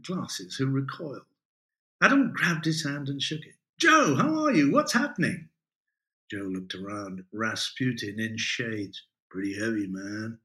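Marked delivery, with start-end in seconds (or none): 3.8-5.5 excited greeting. Acted. Adam greets Joe eagerly. 9.3-10.4 laid-back hippie voice. Acted. Joe, low laid-back hippie.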